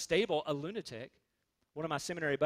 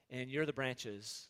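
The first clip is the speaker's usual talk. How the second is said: lower, soft and slow; softly spoken words of Jesus; hushed scripture quote; 6 semitones lower, 8 dB quieter, slower than usual. Acted. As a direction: drop to a soft, slow aside. Quoting Jesus, dropping voice for effect.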